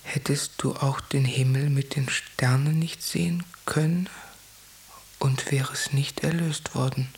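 hushed intimate whisper. Acted. Whispered dream interpretation.

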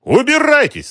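very high, loud furious shout. A narrator's reading. Shopkeeper screams at the racketeer to get out. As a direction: throw him out with a yell. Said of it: "закричал Ахмат".

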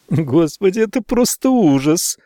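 high anguished wail; horrified at herself; distraught outcry. A narrator's reading. Maggie horrified at his blood, high anguished cry.

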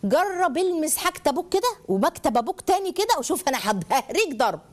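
mock menacing parent; threatening parent. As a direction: threaten a child like a strict parent. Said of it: "لو خدت اسلوب التهديد".

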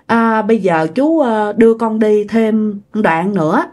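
slow, halting imitation of a middle-aged man; slow speech. The man agrees to take the lost rider a bit further, slowly. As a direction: draw it out, pausing between phrases. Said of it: "ổng nói chậm chậm chứ không phải là nói nhanh".

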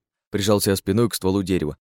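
ordinary delivery

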